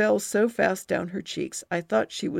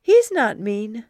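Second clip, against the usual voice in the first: pouting defense; 3 semitones higher, 7 dB louder than usual. Acted. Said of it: "narrowing my eyes and pouting my lips".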